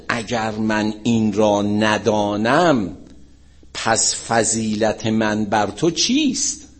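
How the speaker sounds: slow, drawn-out formal recitation; stately, stretched delivery of a holy saying; solemn quotation. Retold or imitated. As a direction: recite it word by word, weightily. Solemn quote, then casual paraphrase.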